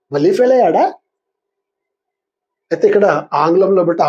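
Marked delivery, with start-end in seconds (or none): 0.1-0.9 surprised question with a rising end; lightly acted disbelief; mild surprise. Shown as a demonstration. Teacher voicing someone hearing of a second failure, mildly surprised. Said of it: "ఆశ్చర్యాన్ని సూచిస్తుంది".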